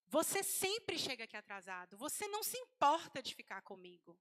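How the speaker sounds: acted complaint, punching the key words; mock angry reproach. Wife accuses late husband of not caring, mildly angry. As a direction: play a wife led by emotion. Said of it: "Ela tá ali com raiva".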